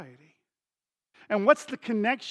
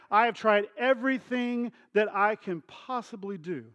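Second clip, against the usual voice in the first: mock exasperated outburst, slightly raised; emphatic, lightly acted annoyance; frustrated and mad; 3 semitones higher than usual. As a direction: imitate a son fed up with explaining. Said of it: "he just gets frustrated and mad".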